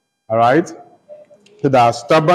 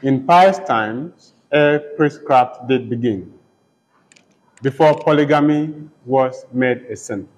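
poem recitation. Shown as a demonstration. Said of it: "by taking just the first, um, few lines".

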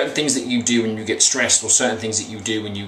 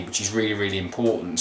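softer and lower, mumbled under the breath; mumbly; 3 semitones lower, 6 dB quieter than usual. Real, not acted. Coach stressing a key point, trailing into a soft mumble. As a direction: let it sink away into a mumble. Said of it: "that was a bit mumbly".

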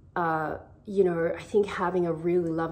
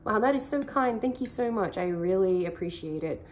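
gracious thanks. Retold or imitated. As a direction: take the kindness in gladly. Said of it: "of being like".

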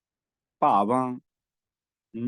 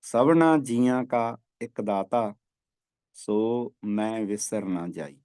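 slow scripture recitation; 2 semitones lower, slower than usual. Shown as a demonstration. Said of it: "ਉੱਥੇ ਪਾਠ ਕਰਨਾ ਹੈ".

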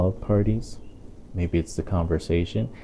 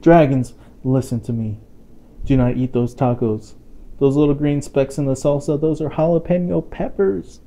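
urgent warning; 5 semitones higher than usual. Acted.

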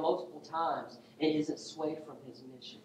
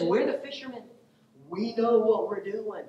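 high, raised-voice protest; indignant Peter; 7 semitones higher, 5 dB louder than usual. Acted. Peter telling Jesus who knows fishing, indignant and high. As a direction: push back loudly, slowing on the last words. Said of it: "The implication is".

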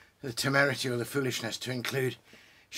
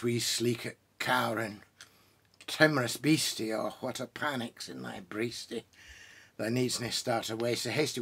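poem recitation. Acted. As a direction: savour each old Scots word as you recite. Reciting Burns's mouse poem.

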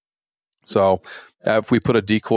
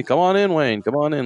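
chummy, eager invite in a raised pitch; mock-welcoming poacher pretending to be friends; overly friendly host; 7 semitones higher than usual. Poacher welcoming the warden inside, hammed-up friendliness. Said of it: "like, we're best buds".

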